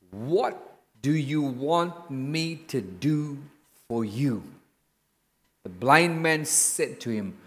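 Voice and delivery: slow, measured Bible reading; scripture reading. Acted. Preacher reading scripture to the congregation, measured. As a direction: read the passage with reverent weight.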